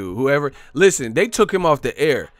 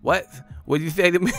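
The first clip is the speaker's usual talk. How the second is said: Mike Tyson impression; 5 semitones higher than usual. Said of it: "listen to my impression".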